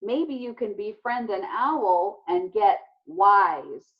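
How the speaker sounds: slow, dry sarcastic jab. Acted. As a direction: tease him with slow mock praise. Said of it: "Izzy said sarcastically".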